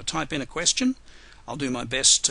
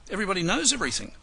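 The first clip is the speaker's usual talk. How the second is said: sarcastic; 7 semitones higher, much faster than usual. Real, not acted. No questions, teasing the audience.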